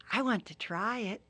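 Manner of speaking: lightly high, rueful turtle; Turtle thinking aloud. Acted. Turtle alone in the jungle, a hint of regret. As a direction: muse to yourself, a bit high.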